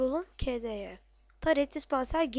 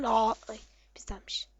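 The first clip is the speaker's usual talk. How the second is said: whisper; 3 semitones lower than usual. Real, not acted. Whispered surprise while gaming.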